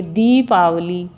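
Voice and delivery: slow दीपावली with vowels drawn out; slow drawn-out word. Shown as a demonstration. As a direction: stretch each vowel of दीपावली slowly. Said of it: "उच्चारण गलत किया". (धीरे धीरे खींचकर दीपावली)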